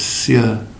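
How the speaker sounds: "sya" with spread lips; flat-lipped Indonesian "sya". Shown as a demonstration. Teacher contrasting the Indonesian sound. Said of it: "where you spread your lips".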